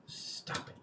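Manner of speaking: urgent unvoiced whisper; whispered urgent warning; whispered stop it. Real, not acted. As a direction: hiss it under your breath to shush a partner. Hissing at partner to stop.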